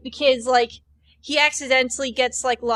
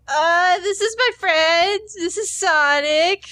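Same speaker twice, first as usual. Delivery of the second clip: high, slow, awkward excuse; nervous cover-up; 5 semitones higher, slower than usual. Retold or imitated. Chris nervously introduces Sonic to his crush, high and slow. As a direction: stall like you've been caught. Chris caught by love interest.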